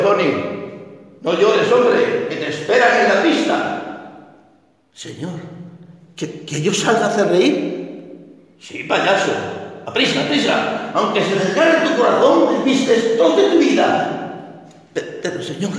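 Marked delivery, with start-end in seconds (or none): none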